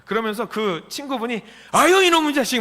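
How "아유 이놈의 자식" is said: high-pitched playful telling-off; mock-indignant burst, pitched way up; mock scolding. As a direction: imitate an old friend's outburst. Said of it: "막 그러면서 호통을 치는 거죠".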